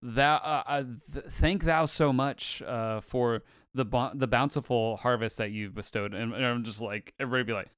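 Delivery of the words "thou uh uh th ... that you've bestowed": archaic formal thanks. Pretend. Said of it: "Japanese guy comes to, like, America and just says".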